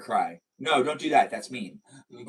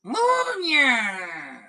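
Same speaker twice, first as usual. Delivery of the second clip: calling out; 10 semitones higher than usual. Real, not acted. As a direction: shout the name to the viewer. Calling out to a viewer.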